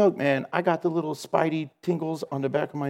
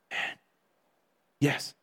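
still small voice; 7 dB quieter than usual. Retold or imitated. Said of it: "a still small voice".

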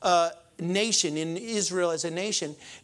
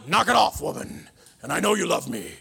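imitating Bogart; 3 semitones lower than usual. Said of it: "Humphrey Bogart".

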